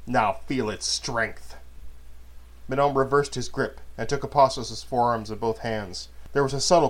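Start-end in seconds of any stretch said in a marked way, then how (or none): 0.1-1.6 slow, menacing and cold; slow menacing threat. Acted. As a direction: draw out the threat. Threat during the attack.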